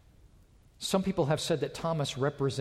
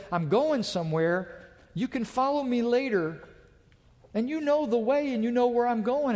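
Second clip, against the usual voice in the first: Jesus speaking; 8 semitones higher than usual. Retold or imitated. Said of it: "And now Jesus said".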